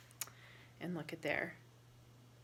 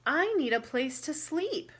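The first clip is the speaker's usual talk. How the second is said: Rabbit voice; 7 semitones higher, 5 dB louder than usual. Acted. Rabbit voiced in read-aloud.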